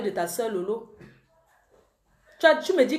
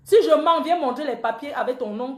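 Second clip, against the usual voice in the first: defiant challenge. Real, not acted. Challenging accused man to prove it.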